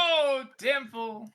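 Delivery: Casca voice. Retold or imitated. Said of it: "He's like".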